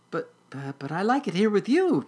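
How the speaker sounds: high, pleading kitten voice; mewing kitten. Acted. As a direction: plead haltingly in a small high voice. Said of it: "mewed Noodle".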